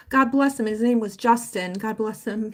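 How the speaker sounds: a real lump in the throat while saying it; tender and teary, trailing off; choked up. Real, not acted. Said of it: "I'm just kind of getting emotional".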